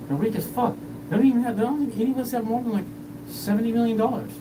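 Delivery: riled-up retold tirade; worked-up rant. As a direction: shout them down like you're fed up. Retold heated rant at others.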